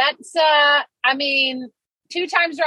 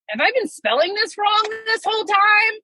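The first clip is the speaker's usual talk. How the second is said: doubting herself; 8 semitones higher than usual. Retold or imitated. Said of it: "all of a sudden, I'm like".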